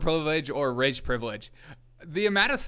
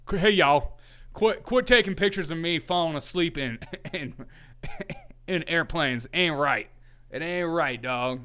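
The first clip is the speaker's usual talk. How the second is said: mock Chris Christie accent; 3 semitones higher than usual. Streamer imitating Chris Christie complaining about airplane photos, mock accent. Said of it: "I don't know where that accent came from".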